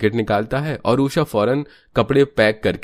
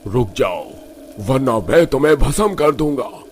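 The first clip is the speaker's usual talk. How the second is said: forceful baba's warning; commanding holy man; 3 semitones higher than usual. Acted. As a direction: order the spirits out with authority.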